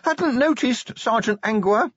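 very high, strangled, frightened; terrified squeak. A narrator's reading. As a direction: squeak it out in panic. Pinned watchman squeaks answers.

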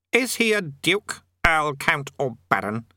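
slow list, starting high and descending; lightly voiced imperious king; demanding king. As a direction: question an underling with authority. King interrogates his underling.

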